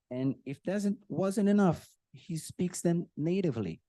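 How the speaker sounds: usual speaking voice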